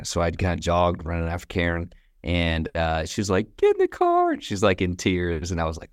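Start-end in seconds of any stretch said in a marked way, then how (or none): 3.6-4.3 urgent plea. Retold or imitated. Distressed woman retold, in tears.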